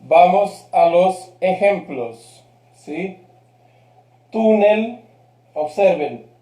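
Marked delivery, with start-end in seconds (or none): 4.3-5.0 "Túnel" stressed on "Tú", pitched higher; penultimate stress. Shown as a demonstration. Teacher showing a grave word, "Túnel" strong on its first syllable. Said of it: "penúltima sílaba, fuerte".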